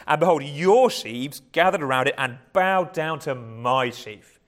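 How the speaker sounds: slow, proud, boastful telling of the dream; arrogant reading. Shown as a demonstration. Preacher reading Joseph's dream to his brothers, arrogant. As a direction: read it like a show-off flaunting his dream. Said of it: "you could read it in that kind of arrogant voice".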